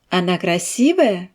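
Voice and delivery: rising tune on красивая; question intonation. Shown as a demonstration. Teacher to students, rising question tune. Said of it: "La voix monte sur le mot".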